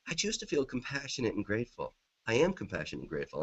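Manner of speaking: softly, as if to yourself; quiet self-talk. Acted. Coach silently affirms to himself in an argument, quiet self-talk. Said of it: "I'm just telling myself that".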